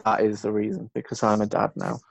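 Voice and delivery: tired voice. Real, not acted. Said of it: "excuse the tired voice".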